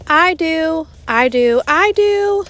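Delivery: put-on high, loud eager chorus of kids. Kids begging the teacher for gum, high and loud.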